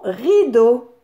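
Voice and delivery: "rideau" slowly, as ri then do; syllable by syllable. Shown as a demonstration. Teacher having children find ri, "rideau" slowly syllabified. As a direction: stretch both beats of "rideau". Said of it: "la syllabe riz".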